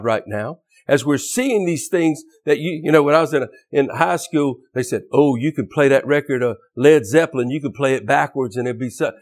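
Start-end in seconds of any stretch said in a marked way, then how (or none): 5.1-9.1 mock backmasking record. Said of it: "you heard some squeaky voice say Satan's glory".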